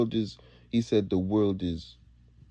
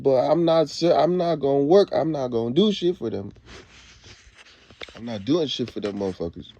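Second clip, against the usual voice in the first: son's angry refusal; 3 semitones higher than usual. Retold or imitated. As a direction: bristle at the idea of working for them. Son quoted refusing, heated.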